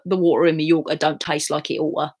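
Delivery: East London Cockney, T's dropped; Cockney accent. Shown as a demonstration. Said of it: "I've got to speak like that".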